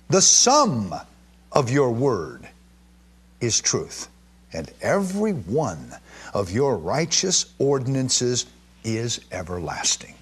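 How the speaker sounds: slow, solemn scripture reading. Acted. Preacher reading a psalm to his congregation, slow and solemn. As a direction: read the psalm slowly, with weight.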